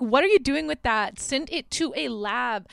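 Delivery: exasperated. Real, not acted. Exasperated aside at the cop.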